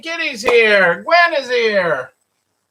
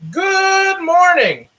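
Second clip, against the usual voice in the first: slow, higher good morning; slow, drawn-out; 7 semitones higher, 3 dB louder, slower than usual. Acted. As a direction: stretch it out brightly. Reading book's entry.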